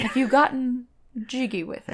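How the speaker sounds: a mock stilted British accent, played for laughs; a mock clergyman asking in a stilted British accent. Hosts asking a virgin question in a mock stilted British accent. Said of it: "stilted British accent".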